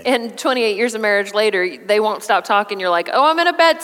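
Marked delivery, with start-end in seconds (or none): 3.1-3.8 mock whine. Mocking long phone talk.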